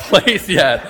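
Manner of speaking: normal talking voice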